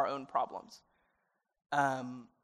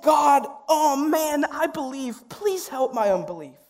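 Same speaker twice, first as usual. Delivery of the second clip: higher, slow and tearful, louder on God; emotional prayer; 8 semitones higher, 5 dB louder, slower than usual. Real, not acted. Youth pastor praying his own doubt aloud, tearful. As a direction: pray it like you mean it, close to tears. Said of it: "I'm getting emotional 'cause it's me".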